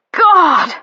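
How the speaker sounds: Harry crying out at climax; stifled cry. A narrator's reading. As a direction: cry out despite holding back.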